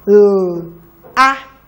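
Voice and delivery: "L-A-M-P." letter by letter, evenly spaced; spelling out. Shown as a demonstration. Teacher spells the dictated word for the class. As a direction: spell "L-A-M-P." one letter at a time. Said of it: "please spell".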